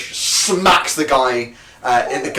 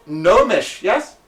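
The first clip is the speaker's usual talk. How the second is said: high curious voice; 6 semitones higher, 3 dB louder, much slower than usual. Acted. GM voicing a curious local.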